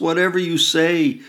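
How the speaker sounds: high, loud wail, falling at the end; wailing again. A narrator's reading. Mother wailing again at her daughter, high and loud. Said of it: "she wails again".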